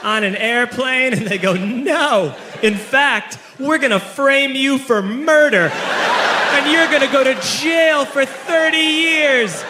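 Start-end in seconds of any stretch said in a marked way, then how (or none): 0.0-1.1 slow pleading. Retold or imitated. Pleading at help desk. 1.5-9.6 gleeful villain threat. Retold or imitated. Help desk villain threatens.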